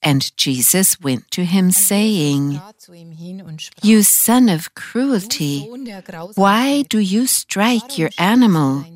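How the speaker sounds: story narration with voiced speakers; reading scripture to viewers, gospel storytelling manner. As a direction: read the gospel passage aloud like a story for listeners. Reads a gospel story aloud.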